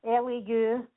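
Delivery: letter by letter; spelling it out. Real, not acted. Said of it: "would you mind just spelling that for me".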